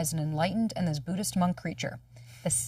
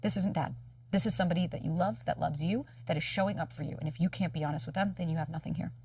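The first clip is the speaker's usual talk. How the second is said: calm self-talk; 5 dB quieter than usual. Retold or imitated. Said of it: "being able to go".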